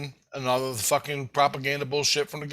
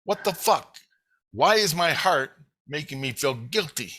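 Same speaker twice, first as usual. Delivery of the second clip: exasperated, insistent questioning of himself; retold yelling at himself; 3 semitones higher than usual. Kid questioning his guilty heart, retold indignant yelling. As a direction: keep firing baffled questions at your own heart. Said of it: "I'm yelling at myself".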